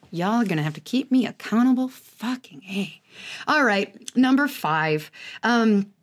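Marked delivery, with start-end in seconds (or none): 1.9-3.0 muttered aside. Real, not acted. To listeners about accountability, softly resigned. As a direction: drop it under your breath, resigned.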